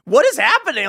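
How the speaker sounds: mock exasperation. Echoes the woman in the clip.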